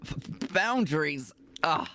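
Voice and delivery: mock-disgusted and sulky, drawn out; a lightly voiced, slow, angsty protest; Walter. Friend practises being Walter refusing boundaries, mock sulky. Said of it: "I need to practice my Walter impression".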